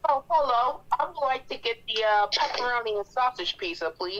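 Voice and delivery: a hint of a polite customer; pizza customer. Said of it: "How about I be your consumer?".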